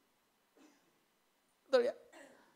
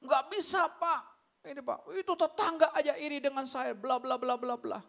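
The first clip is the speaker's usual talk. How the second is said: mock angry complaint; 2 semitones higher than usual. Congregant griping to the pastor about a neighbour, mock annoyed. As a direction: imitate an aggrieved neighbour-dispute rant, fading into blah-blah. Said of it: "Dia marah-marah juga".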